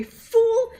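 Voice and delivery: villain roar of "Fool" at an idiot; shouted fool. Shown as a demonstration. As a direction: hit "Fool" with force and intensity. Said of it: "It has to be".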